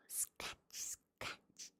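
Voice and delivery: scratching. Acted. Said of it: "scuffled Simpkin".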